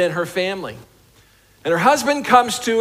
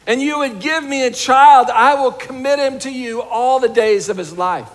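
a desperate prayer, raised and pleading; crying out to God; 4 semitones higher than usual. Retold or imitated. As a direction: cry out a desperate vow. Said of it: "she's crying out".

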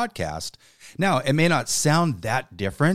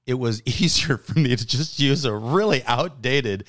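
kind gentle laugh; 2 semitones higher than usual. Real, not acted. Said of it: "I'm laughing with you".

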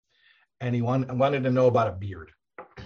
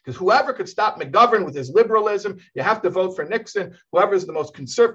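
impassioned sermon; 6 semitones higher, 3 dB louder than usual. Retold or imitated. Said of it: "it's very harsh language".

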